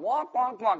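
droning cartoon grown-up babble; Charlie Brown's parents. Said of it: "You sound like Charlie Brown's parents".

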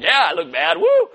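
boastful with a rising high whoop at the end; mock fighter bragging over his win; proud whoop. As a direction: own it, then cheer. Dude proud after winning fight.

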